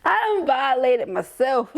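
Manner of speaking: high, slow, through laughter; giggling at yourself; laughing. Real, not acted. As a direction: say it while cracking up. Laughing at self.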